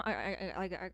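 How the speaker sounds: tripping over the first word; real stutter. Real, not acted. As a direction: stumble on the start, then curse. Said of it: "I'm stuttering". (stuttering for real)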